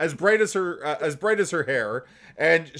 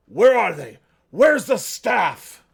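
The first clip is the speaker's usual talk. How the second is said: monster voice of a raiding hobgoblin; 4 semitones higher, 4 dB louder than usual. Voicing hobgoblins bursting through the front doors: hobgoblin voice. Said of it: "definitely it sounds like hobgoblins".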